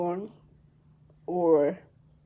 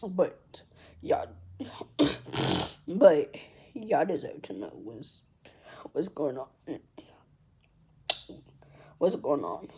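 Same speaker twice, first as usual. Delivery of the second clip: whispered, breaking words pushed out; determined while still choked up; tearful resolve; 3 semitones lower than usual. Real, not acted. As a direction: force it out through tears. Pushing through tears to explain.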